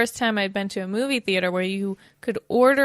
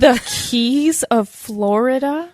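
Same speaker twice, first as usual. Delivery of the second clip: excited; 3 semitones higher, 8 dB louder, slower than usual. Retold or imitated. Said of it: "I was like".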